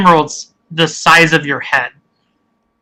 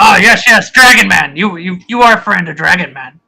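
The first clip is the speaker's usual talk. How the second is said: suddenly convinced and pleased; lightly voiced ogre, now friendly; delighted ogre. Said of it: "He goes".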